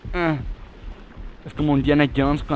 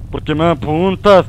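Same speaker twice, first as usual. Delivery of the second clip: alarmed; 3 semitones higher, 9 dB louder, slower than usual. Real, not acted. Spider aims at his character.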